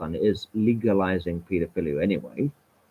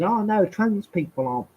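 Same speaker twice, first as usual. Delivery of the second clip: mocking objector; 3 semitones higher than usual. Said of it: "gets on the high horse and says".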